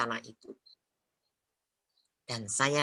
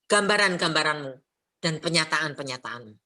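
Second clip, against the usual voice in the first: crying out in prayer. Retold or imitated. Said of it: "cepat-cepat saya berseru".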